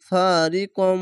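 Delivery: ফারিকম ending on a long nasal m; ghunna. Shown as a demonstration. Teacher demonstrating ghunna to learners, ফারিকম with a held nasal m. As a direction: hum through the final m of ফারিকম. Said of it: "এটি গুন্না হবে".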